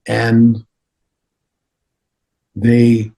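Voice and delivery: put-on halting, deliberate accented lama; Dalai Lama. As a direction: tell it in measured fragments with long pauses. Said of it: "He goes".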